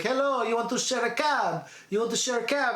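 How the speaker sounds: lightly hammed-up inviting pitch; chatty airport stranger. Stranger luring girls at the airport, mock friendly. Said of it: "that guy that was at the airport that was like".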